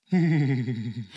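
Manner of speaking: imitated guinea pig squeak; squeaky little guinea pig chatter. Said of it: "they'll go like".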